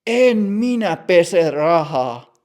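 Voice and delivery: loud and slow, scared protest; frightened shout. Acted. Matti frightened, shouting at the bank clerk. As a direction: insist loudly, drawn out, in alarm. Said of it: "Matti huutaa".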